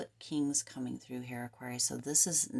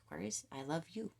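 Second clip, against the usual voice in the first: soft loving spirit; 7 dB quieter, faster than usual. Retold or imitated. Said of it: "Spirit's like".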